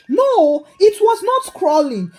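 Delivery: high, loud, brushing it aside; dismissive correction. Acted. Mama Nkechi correcting Mama Chinwe's version, loud and dismissive. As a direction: wave the other story away with a loud "no". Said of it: "waved her hand dismissively".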